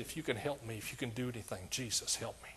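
a hushed, desperate prayer for help; desperate whispered plea. Retold or imitated. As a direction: plead almost under your breath. Retold desperate prayer again.

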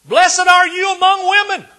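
high, full-out sustained shout; loud voice. Acted. Preacher as Spirit-filled Elizabeth blessing Mary, shouting loudly. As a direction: cry it out at the top of your voice. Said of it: "with a loud voice".

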